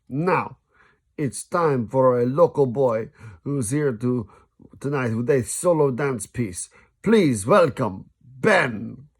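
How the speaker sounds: drawn-out showman intro; stage announcer. Acted. Flavio announcing Ben to the theatre, slow showy host. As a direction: stretch the name like a host.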